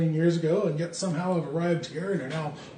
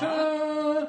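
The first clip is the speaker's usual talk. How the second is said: excited; 11 semitones higher than usual. Acted. Reveal of colour change.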